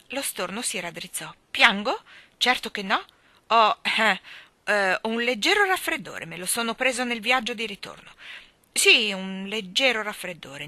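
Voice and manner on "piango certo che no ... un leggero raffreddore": loud, higher, indignant protest with hesitations; flustered denial. A narrator's reading. Starling denying tears to Mary Poppins, flustered. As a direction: cover the tears with bluster.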